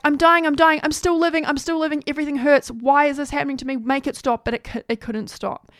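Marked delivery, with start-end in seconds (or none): 0.1-4.4 louder, desperate cries of pain; mock panicked wail, louder; panicked pleading. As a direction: beg for it to stop in a retold panic. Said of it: "It was like".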